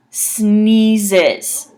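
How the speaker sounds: sneezes as snee-zez with z sounds; careful pronunciation. Shown as a demonstration. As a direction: say sneezes, both s's buzz as z. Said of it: "it sounds like".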